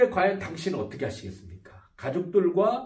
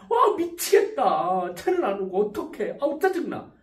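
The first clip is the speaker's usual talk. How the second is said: put-on whiny, childlike complaining; a mock childish sulk, slow at first; childish grumbling; 5 semitones higher, 4 dB louder than usual. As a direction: grumble like a kid stuck waiting for a taxi. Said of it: "투덜투덜거릴 거예요".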